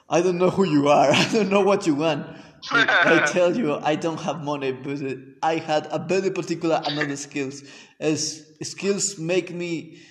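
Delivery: lightly done Liam Neeson, slow and loud; slow, menacing movie threat, a touch of it; Liam Neeson quote. Retold or imitated. Storyteller quoting the Taken threat, lightly imitating Liam Neeson. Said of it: "el audio de Liam Neeson".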